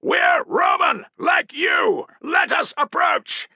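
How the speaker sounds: slow, high, loud call. A narrator's reading. Piso calling through cupped hands to distant sentries. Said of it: "He cupped his hands to his mouth".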